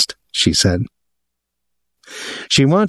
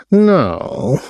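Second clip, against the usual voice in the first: higher, pleading protest; beseeching; 7 semitones higher than usual. A narrator's reading. Captain begging the woman not to leave, beseechingly. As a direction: plead gently, with a falling cry. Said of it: "Willie said beseechingly".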